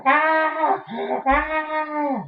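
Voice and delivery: high but restrained scream; mock scream thrown back; retaliatory scream. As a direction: answer a scream with two high cries of your own. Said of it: "I ought to be the one screaming".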